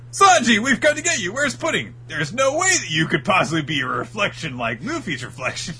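high, loud eager call, settling down; shouting to Sanji. Acted. Luffy shouting to Sanji in the forest, high eager call. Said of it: "who is shouting out to Sanji".

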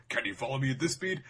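lightly voiced fighter's taunt; mock battle challenge; recalled challenge. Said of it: "she recalls".

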